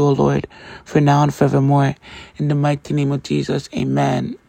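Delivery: earnest, steady spoken prayer. Acted. Host leads listeners in opening prayer, earnest prayer voice. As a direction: pray it aloud to open the show.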